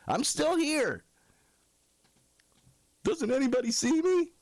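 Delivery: high, strained-for-attention cry; pleading protest. Acted. Ignored man asks if anybody sees him, pleading. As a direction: call out to be noticed.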